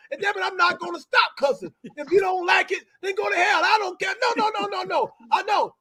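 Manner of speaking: lightly voiced fiery soul singer ranting; a soul singer impression. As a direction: play a cranky old star who won't be told what to do, only lightly put on. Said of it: "singer impersonation".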